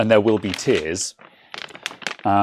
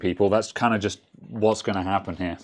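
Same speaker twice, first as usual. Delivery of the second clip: crunching chips; 5 dB quieter than usual. Real, not acted. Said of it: "sorry about the crunching".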